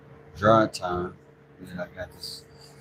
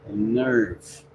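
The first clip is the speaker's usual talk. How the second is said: "Nerve" breathed out in a whisper; 5 semitones lower than usual. Retold or imitated. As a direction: hiss "Nerve" as the hurt hand, under the breath. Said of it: "my hand is mad at me".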